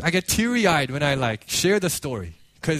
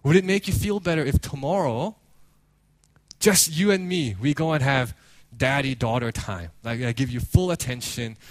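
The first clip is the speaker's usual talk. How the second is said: gentle, lowered coaxing; retold tender father; 4 semitones lower than usual. Father consoling his daughter, gentle lowered voice. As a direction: offer comfort to an upset child. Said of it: "and then he says".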